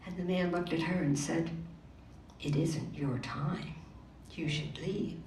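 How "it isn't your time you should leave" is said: grave. Acted. Mysterious man speaks gravely.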